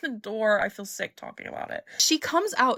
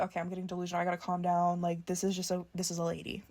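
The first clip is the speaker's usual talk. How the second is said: quiet, talking herself down, much softer; hushed self-talk; 2 semitones lower, 6 dB quieter, faster than usual. Retold or imitated. Telling herself to calm down about the actress, in a hushed voice. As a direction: murmur it to yourself to calm down.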